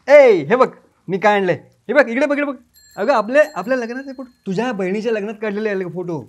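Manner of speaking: hoping the photos bring her back; eager. Acted. Husband shows wife their wedding photos: loud, eager.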